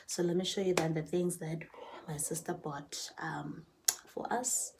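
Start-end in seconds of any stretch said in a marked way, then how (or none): 2.1-4.7 soft whisper, a little secret; hushed aside to the viewers. Real, not acted. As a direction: whisper it like a side note. Aside while showing the gifts.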